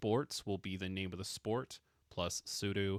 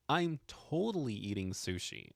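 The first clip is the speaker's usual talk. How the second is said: higher, emphatic "I'm totally eating sushi"; 4 semitones higher than usual. Shown as a demonstration. Teacher translates the emphatic nda sentence, emphatic. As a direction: lean into "totally" with raised pitch. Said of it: "wanna make it more emphatic".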